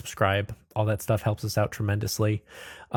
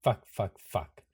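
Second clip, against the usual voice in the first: breath out, then curse under the breath; soft, sinking string of curses; dismayed muttering; 4 semitones lower, 9 dB quieter, much slower than usual. Acted. Anderson reacting to the villain's threat, dismayed muttering.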